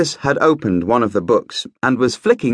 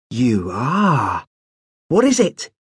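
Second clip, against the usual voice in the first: put-on eager young prince; slower than usual. A narrator's reading. Marcus eager to know.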